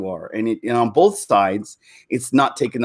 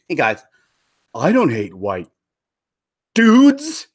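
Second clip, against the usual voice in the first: mock quote; 3 dB louder, slower than usual. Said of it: "who talks like that?".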